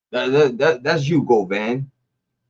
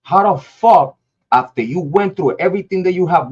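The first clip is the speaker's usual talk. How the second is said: angry outburst; 6 semitones higher than usual. Real, not acted. Angry rant at a rival rapper.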